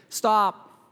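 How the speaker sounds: firm command. Acted. Jesus halts disciples turning children away.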